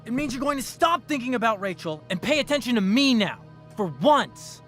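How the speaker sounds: pressing, agitated confrontation; heated insistence. Acted. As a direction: demand to be listened to, frustration rising. Frustrated suitor demands her attention.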